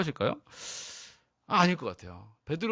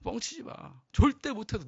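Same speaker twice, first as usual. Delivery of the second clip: mock harsh rebuke; 4 dB quieter than usual. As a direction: scoff at a disciple's boast. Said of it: "예수님이 이러신 것일까요". (제자를 비웃으며 몰아붙이는 꾸짖음)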